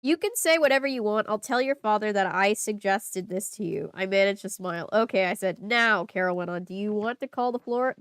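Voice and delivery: steady reading-aloud voice; story narration. Acted. Reader narrating the diary, steady read-aloud voice. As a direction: read the diary entry evenly.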